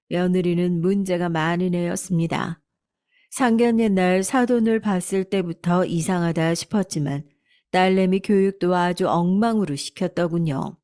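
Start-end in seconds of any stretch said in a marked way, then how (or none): none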